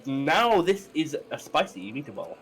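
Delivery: slow, hammed-up Italian accent; jokey mock-Italian accent; terrible Italian accent. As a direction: do a bad, drawn-out Italian accent. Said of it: "my terrible Italian accent".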